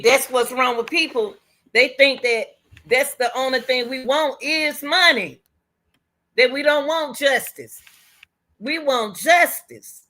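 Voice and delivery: rising passionate insistence; impassioned plea. Real, not acted. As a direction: plead for justice with fire.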